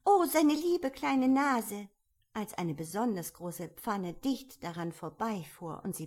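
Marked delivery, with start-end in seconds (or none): 0.0-1.9 high, loud and slow, full of alarm; anxious cry. A narrator's reading. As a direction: wail it out for the little nose. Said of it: "in wahrer Herzensangst". (hoch, laut und langsam, voller Angst)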